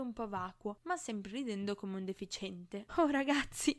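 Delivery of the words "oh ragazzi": giddy chirp. A narrator's reading. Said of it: "cinguettò".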